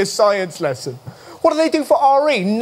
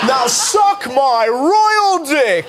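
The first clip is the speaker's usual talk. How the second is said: mock kingly Henry; 2 semitones higher, much slower than usual. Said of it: "Henry the eighth".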